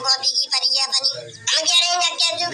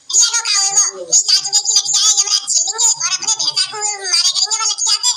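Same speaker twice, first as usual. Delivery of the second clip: gleeful taunt; 3 semitones higher, 4 dB louder than usual. Acted. Gleeful taunting about mother-in-law.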